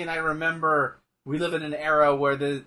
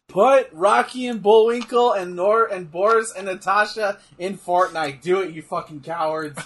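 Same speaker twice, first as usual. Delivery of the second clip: louder, pushing the demand; mock rallying demand; 2 semitones higher, 4 dB louder than usual. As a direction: dare them to do it. Mock demand to game makers.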